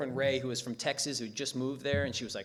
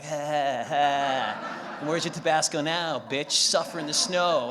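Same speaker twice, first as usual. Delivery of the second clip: taunting dog voice; 4 dB louder, slower than usual. Acted.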